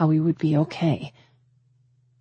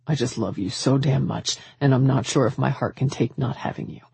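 lower-voiced man pleading his love; lovelorn suitor; 4 semitones lower than usual. Man who fears losing the woman he loves, earnest plea. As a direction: plead from an aching heart, pitched down.

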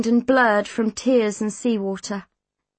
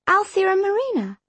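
high-pitched, startled query; incredulous question, pitched up; surprised echo; 10 semitones higher than usual. A narrator's reading.

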